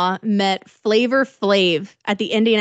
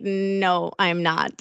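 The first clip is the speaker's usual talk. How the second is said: deadpan denial; 4 semitones lower, 5 dB quieter, much slower than usual. Acted. Stranger deadpans denial to fan.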